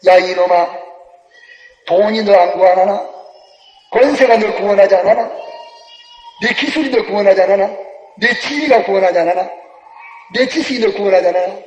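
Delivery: lightly voiced scornful God; a hint of God sneering at a sinner; mocking God. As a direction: taunt the sinner, half-laughing. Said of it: "하나님이 비웃어".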